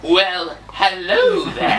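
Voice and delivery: slow pupil's try at a charmer's greeting; attempted put-on voice. Shown as a demonstration. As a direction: copy the coach's drawn-out suave hello. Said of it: "try speaking in a voice like this".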